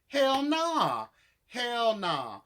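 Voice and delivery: loud, high "hell nah", pitched well up; emphatic refusal. Real, not acted. Vlogger rejecting the cast member's choice, loud and high. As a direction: shut it down hard, disbelieving.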